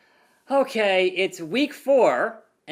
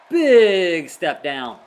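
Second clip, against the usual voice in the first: slow emphatic; 7 dB louder, much slower than usual. Real, not acted. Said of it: "slow emphatic judgement".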